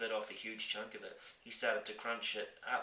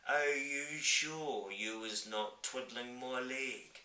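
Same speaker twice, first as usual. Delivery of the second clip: slow giant voice; 4 semitones higher, much slower than usual. Acted. Giant doubtful.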